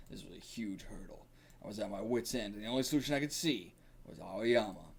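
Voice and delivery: lightly gravelly coach voice. Acted. Coach explaining the plan to Joe, lightly gravelly. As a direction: confess with a touch of gravel. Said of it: "it's just gonna be gravelly".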